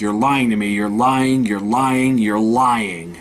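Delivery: insistent retold accusation, stressing each "lying"; mock anger, repeating it with mounting insistence; mildly angry. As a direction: imitate someone getting angrier, without shouting. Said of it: "gets more and more angry".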